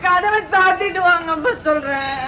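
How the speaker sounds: speaking through tears, voice wet with crying; tearful. Acted. Daughter to father, tearful and hushed. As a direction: daughter tearfully asks father to shut the door. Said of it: "ஏன் அழுதுற".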